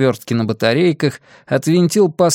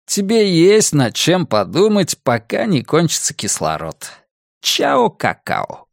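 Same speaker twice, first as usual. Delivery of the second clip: lightly voiced sneering kidnapper; mock her with cold amusement; gloating villain; 4 semitones higher than usual. Villain's mocking farewell.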